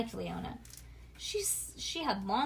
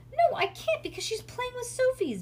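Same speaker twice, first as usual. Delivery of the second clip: high, loud whiny retort; grumpy child; 5 dB louder than usual. A narrator's reading. Bean answers her mother's useless suggestion, high-pitched grumpy whine. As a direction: snap back in a sulk. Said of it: "Bean said grumpily".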